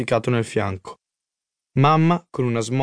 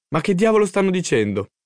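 higher, puzzled inner outburst; baffled and higher-pitched; 6 semitones higher than usual. A narrator's reading. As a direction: wonder in bewilderment what is going on. Boy's baffled thought at parents.

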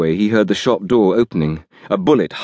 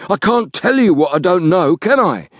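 the scared thug begging, pitched up; cornered man pleading, much higher voice; frightened Liggett; 11 semitones higher than usual. Acted.

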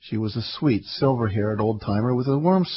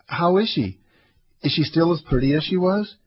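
pleading, pitched higher; begging; 7 semitones higher than usual. A narrator's reading. Old man begging the narrator for news of Hannah, pleading higher. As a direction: beg the old man to tell you, voice lifting. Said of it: "he begged".

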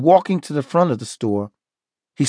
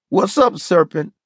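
shouting; 6 semitones higher than usual. Acted. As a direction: shout it across the store. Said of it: "someone shouted".

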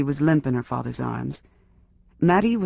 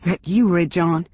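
lightly voiced reedy sheriff, a bit higher; a hint of a thin-voiced lawman calling through the door; reedy man's voice; 4 semitones higher, 4 dB louder than usual. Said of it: "A reedy man's voice".

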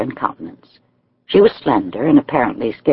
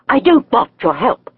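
a touch of a snap, set higher; snapping; 12 semitones higher than usual. A narrator's reading. Young lady refuses the visitor's help, mild snap. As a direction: refuse the help sharply, understated. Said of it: "she snapped".

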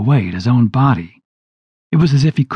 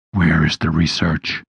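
demon demand; 6 semitones lower than usual. A narrator's reading.

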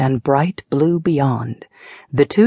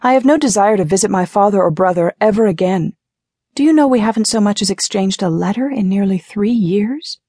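higher-pitched, indignant outburst; 6 semitones higher than usual. A narrator's reading. Ariana refuses to visit her father, indignant. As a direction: vent hotly about estranged family.

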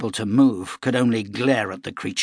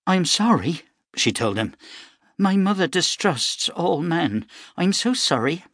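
put-on higher, sweet apologetic girl voice; young girl, apologetic; 7 semitones higher than usual. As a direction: play the pretty farm girl saying sorry.

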